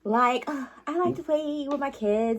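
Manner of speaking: lightly voiced Valley Girl. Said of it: "in your Valley Girl voice".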